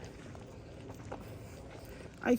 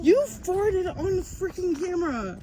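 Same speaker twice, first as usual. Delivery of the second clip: loud, slow, disbelieving; outraged disbelief at the smell; shocked; 7 semitones higher, 5 dB louder than usual. Real, not acted. Friend farts while filming.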